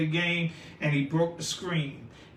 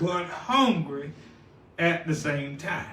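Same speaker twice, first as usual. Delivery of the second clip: laughing; 2 semitones lower than usual. Real, not acted. Laughing at the congregation's eating.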